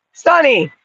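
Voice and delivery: high call of the dog's name. Real, not acted. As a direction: call out to the dog from across the yard. Calling the dog.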